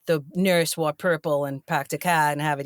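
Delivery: low Fall River accent sample. Shown as a demonstration. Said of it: "if she doesn't hear any".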